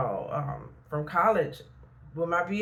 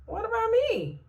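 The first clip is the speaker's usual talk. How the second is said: high, pleading whine; mock a sorry-for-yourself cry; plaintive self-pity; 3 dB louder than usual. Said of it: "And sometimes you're like".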